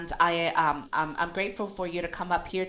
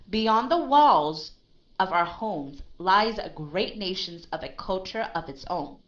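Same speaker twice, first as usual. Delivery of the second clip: narrative reading. Shown as a demonstration. Teacher demonstrates narrative reading to her student. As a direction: read it like a storyteller. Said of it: "this is how I would read".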